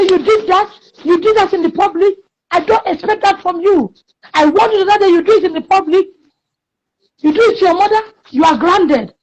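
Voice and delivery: put-on high, indignant scolding of a disrespectful child; retold scolding. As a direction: scold her like a shocked mother. Mother scolding a slapping child.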